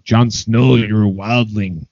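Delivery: put-on a faint, half-hearted Scottish accent as Tormund; barely-there Scottish brogue, quoting Tormund lightly; awful Scottish accent. Friend quoting Tormund to Jon, in a weak Scottish accent. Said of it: "my awful attempt at, like, a, a Scottish accent".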